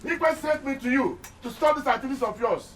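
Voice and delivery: high, forceful command to stop; shouting orders. Acted. Igwe's messenger orders the councillor to stop, shouting. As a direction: demand he stops now. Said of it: "Are you done shouting?".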